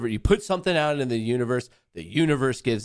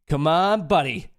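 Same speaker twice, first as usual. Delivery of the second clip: rising excitement; 6 semitones higher, 6 dB louder than usual. Real, not acted. Trade moving, rising excitement.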